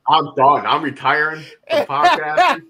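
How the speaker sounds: laughing through a mock ultimatum; half-laughing, half-whining it out; cracking up mid-threat. Real, not acted. Mock threat to quit podcasting.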